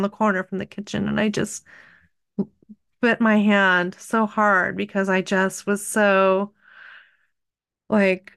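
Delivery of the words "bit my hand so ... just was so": normal talking voice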